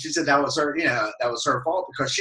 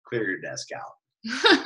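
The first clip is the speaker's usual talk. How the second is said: slow, lower, clipped boss command; mock stern order; 4 semitones lower, 4 dB quieter, much slower than usual. Boss firing the intern at her desk, slow mock stern. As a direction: lay it down slowly like a stern boss. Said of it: "she's like".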